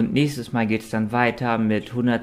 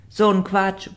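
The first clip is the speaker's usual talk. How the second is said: hoch und laut empört; empört abwinken; erbost protestierend; 9 semitones higher, 3 dB louder than usual. A narrator's reading. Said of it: "protestierte Richard und klapperte erbost". (erboster Protest)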